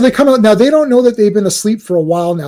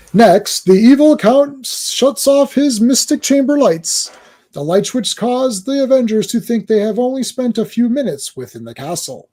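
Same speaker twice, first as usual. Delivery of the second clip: put-on old radio voice; 6 semitones higher than usual. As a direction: narrate like an old radio drama. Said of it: "trying to do the old radio voice thing".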